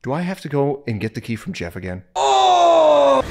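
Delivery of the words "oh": high, loud yelp; startled. Real, not acted. Gamer startled by the game, loud yelp. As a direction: yelp at the sudden scare.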